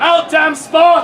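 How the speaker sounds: slow, emphatic stage command; dramatic declaiming. Acted. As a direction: declaim it slowly as mock madness. Lady Macbeth's mad line, fed to actor.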